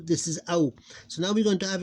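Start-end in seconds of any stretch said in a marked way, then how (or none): 0.5-0.7 Ow gliding from a to u; diphthong. Shown as a demonstration. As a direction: glide through both vowels in Ow. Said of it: "this is the diphthong".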